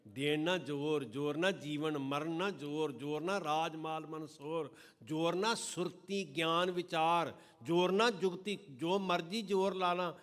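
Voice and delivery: rising preaching crescendo; building fervor. Acted. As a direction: climb with each line. Rising recitation of Japji.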